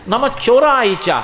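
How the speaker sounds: lifted, slow acted welcome of "నమ చోరాయిచ"; delighted welcome. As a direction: greet them with happy reverence, stretched out. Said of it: "పరమ సంతోషం, రండి స్వాగతం".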